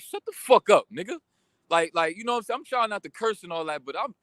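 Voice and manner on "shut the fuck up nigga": half-shouted retold outburst; louder, higher mock yell; imagined yell. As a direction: snap it out like you almost said it. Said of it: "I was ready to be like".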